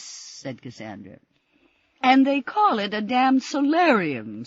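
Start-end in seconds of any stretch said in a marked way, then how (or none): 2.0-4.4 loud, high and furious; violent outburst. A narrator's reading. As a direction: spit it out in rage at the room. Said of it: "said Missus Mitchell violently".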